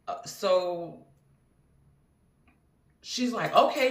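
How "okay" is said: a mock-excited okay, higher and louder. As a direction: act out her eager yes. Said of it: "she's excited about it".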